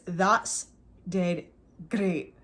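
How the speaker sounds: That's dead great in a Scottish accent, each word set apart; slow Scottish demo, That's dead great with a pause after each word; teaching a Scottish accent: That's dead great, word by word. Shown as a demonstration. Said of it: "suddenly you're perfectly Scottish".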